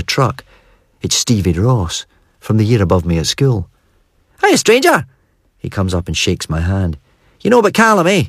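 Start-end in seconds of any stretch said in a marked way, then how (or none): 4.4-5.1 high, bright call across a yard; hearty Scots hello; cheery hail. A narrator's reading. Cheery greeting from old schoolmate. 7.4-8.2 higher lightly voiced mate; a hint of a chatty Scots workman; friendly mechanic asking news; Stevie's voice. A narrator's reading.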